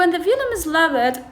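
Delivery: slow, careful read of these are called affricates; reading the textbook aloud. Shown as a demonstration. Teacher reading the textbook to students, slow and careful. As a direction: read the English line slowly for the class. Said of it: "فيقول".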